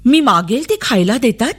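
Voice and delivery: high, wondering questions; puzzled child. A narrator's reading. Child wonders why all are kind. (गोंधळलेल्या मुलीचा उंच आवाज)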